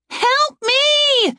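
high, frantic plea for help; panicked woman's cry. Acted. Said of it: "She shouted up at him".

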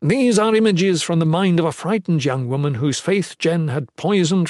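lightly voiced, scornful man in authority; dismissive commander. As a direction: argue it down, then lay out the terms. Ethan rejects evidence, gives terms.

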